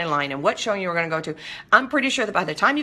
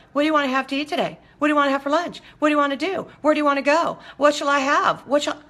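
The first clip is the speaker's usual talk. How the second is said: higher, complaining menu questions; whiny indecisive diners; 8 semitones higher, faster than usual. Retold or imitated. Mocking diners who can't choose what to eat, higher and whiny. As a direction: mimic people who can't pick lunch. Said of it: "They walk around going".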